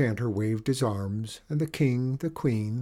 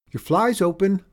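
cartoon princess; 9 semitones higher, 8 dB louder than usual. Princess tricks goblin.

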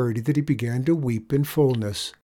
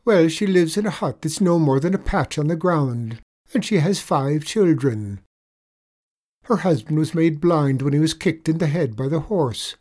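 lightly voiced leprechaun, higher and louder; leprechaun telling a pitiful tale; 6 semitones higher, 6 dB louder than usual. A narrator's reading. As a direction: tell a woeful tale as the leprechaun, raised voice. Leprechaun tells sad tale.

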